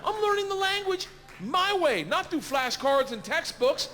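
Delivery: real laughter while telling it; laughing. Real, not acted. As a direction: giggle out the punchline. Laughing at his own story.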